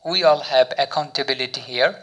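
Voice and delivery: very slow, word by word English; slow example sentence. Shown as a demonstration. Teacher reads example sentence to learners, very slowly. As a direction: spell out each word of the model sentence. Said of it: "use করে দেখি কী sentence".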